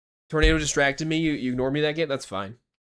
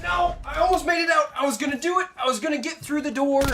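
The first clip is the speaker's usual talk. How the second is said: anguished shout. Real, not acted. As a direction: cry out at nearly escaping. Dies just before escaping.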